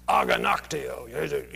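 "Aganakteo" slow and deliberate, a-ga-nak-TE-o; Greek word slowly. Shown as a demonstration. Preacher teaches the Greek word for indignant: slow, careful. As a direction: spell "Aganakteo" out with care, syllable by syllable. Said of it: "indignant in Greek is aganakteo".

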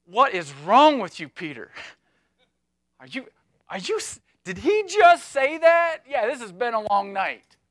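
a hint of fed-up fishermen scoffing; lightly voiced incredulous friends; disbelieving disciples. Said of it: "the response of the other disciples".

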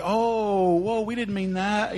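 high, drawn-out oh, then hasty retreat; mock alarmed apology; sudden backpedalling. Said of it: "people get an attitude adjustment".

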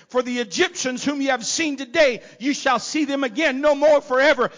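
ordinary talk, nothing marked

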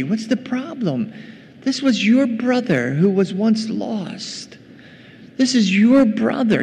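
high-pitched, earnest reasoning; acted dad making his case; entreating father. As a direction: plead with a sulking son, pitched well up. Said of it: "And he entreats him".

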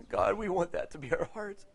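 earnest prayer. Real, not acted. Preacher praying for the congregation's hearts, earnest prayer. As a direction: lift the voice to God, softening toward the end. Prays aloud to God.

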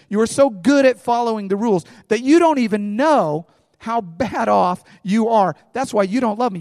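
Jesus rebuking. Retold or imitated. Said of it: "and he says".

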